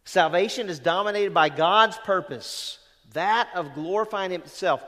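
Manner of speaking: preacher repeats the line to make it land; emphatic repeat. Shown as a demonstration. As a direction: hammer the quote home a second time. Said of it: "You get that?".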